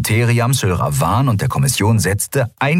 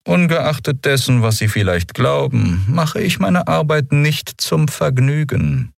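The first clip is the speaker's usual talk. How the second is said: a higher, slow, measured commodore voice; cold officer; 7 semitones higher than usual. A narrator's reading. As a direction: speak down to the prisoner with icy calm. Kommodore Monaro speaks coldly.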